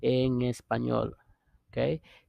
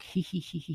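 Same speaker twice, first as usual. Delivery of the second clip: higher, soft mock titter; imitated giggle; 5 semitones higher, 6 dB quieter, faster than usual. Friend responding to gossip by text, pretend giggle. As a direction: play a friend giggling back. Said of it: "a laughter".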